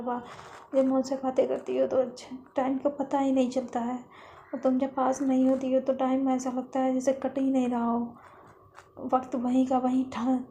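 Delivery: slightly lifted, insistent confession; earnest pleading. Acted. Lovely begging her friend not to leave, earnest. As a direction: plead with mild urgency. Heartfelt plea to friend to stay.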